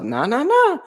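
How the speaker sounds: high, loud rallying cry; hype call. Real, not acted. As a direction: whip the room into joining. Rallying guests onto couch.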